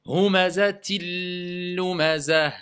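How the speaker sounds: "humazatil lumazah" with a held doubled l; slow recitation. Shown as a demonstration. Teacher models the merged l slowly, chanted.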